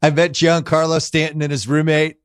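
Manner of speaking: boastful Trump voice; hammed-up Trump gushing about an apartment; Trump impression. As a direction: gush about the furniture like Trump.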